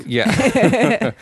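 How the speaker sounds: high, pleased with himself; a smug little yeah; smug guy voice. Retold or imitated.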